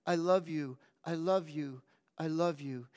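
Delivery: choked repeated love. Acted. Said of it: "incoherent through the pain".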